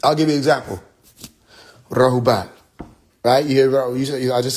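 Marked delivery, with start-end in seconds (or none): 1.9-2.5 Rahubat said low, falling at the end; one tone of Rahubat. Shown as a demonstration. Teaching a word, falling tone. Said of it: "That's a tone".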